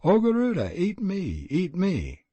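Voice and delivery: high, frantic cry that fades; screaming mother. Acted. Mother mistakes the stranger for Garuda, high frantic scream. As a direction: scream at the great bird in terror. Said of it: "and she screamed".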